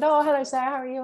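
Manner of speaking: high, bright retold hello; cheery greeting. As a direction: act out a doctor's chirpy welcome, pitched well up. Doctor greeting her, retold.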